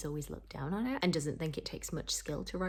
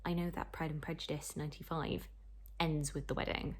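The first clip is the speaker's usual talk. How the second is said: ordinary talk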